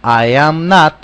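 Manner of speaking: "I am not" loud, each word full; full form. Shown as a demonstration. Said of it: "Vamos de nuevo".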